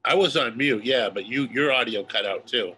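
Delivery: blocked nose, stuffy voice; stuffed up. Real, not acted. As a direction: talk through a stuffed-up nose. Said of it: "I'm wheezing here because I'm so stuffed up".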